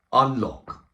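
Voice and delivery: high, loud shouted command of a prison guard; loud guard's bark echoing down the landing; officer's call. Retold or imitated. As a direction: call it out like a screw opening the wing. Prison officer unlocking the doors.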